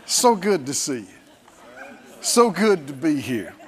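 smiling. Shown as a demonstration. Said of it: "And smile when you say".

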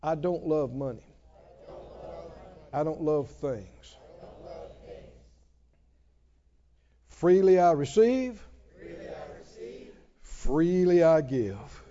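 slow, low congregational declaration; solemn spoken creed; recited confession. Shown as a demonstration. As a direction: lead the church through it word by word. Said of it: "I want you to say it again".

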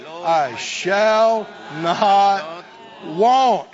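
loud, slow, ringing proclamation; preaching call. Acted. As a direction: shout praise to the Lord.

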